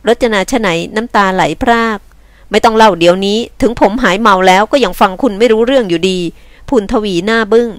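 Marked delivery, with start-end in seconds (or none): 2.5-6.2 lightly voiced gruff rescuer; brusque man. Man tells a crying woman to wait, brusquely. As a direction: cut her story off, mildly brusque.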